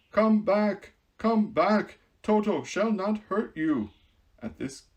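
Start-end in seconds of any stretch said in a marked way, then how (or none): 0.1-3.9 louder, higher call to the mice. Acted. Woodman calling the fleeing mice back, loud and reassuring. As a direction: call them back kindly. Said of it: "he called to the mice".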